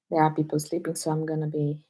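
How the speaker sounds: softly, people are asleep nearby; soft, careful not to wake anyone; low voice. Real, not acted. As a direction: keep your voice down. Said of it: "low voice".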